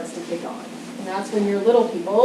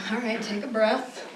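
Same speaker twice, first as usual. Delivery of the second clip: calm parent. Retold or imitated. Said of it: "New paradigm would go".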